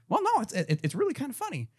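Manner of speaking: breezy boss shrugging it off; lightly voiced CEO.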